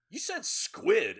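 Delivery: high, loud, slow disbelieving mayor; mayor's incredulous quote. Retold or imitated. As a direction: drag it out, shocked and outraged. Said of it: "And he's like".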